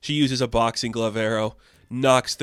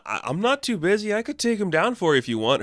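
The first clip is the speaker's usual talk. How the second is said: higher-pitched retold offer from a bounty hunter; lightly voiced bounty hunter; 8 semitones higher than usual. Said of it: "some bounty hunter sitting at the bar".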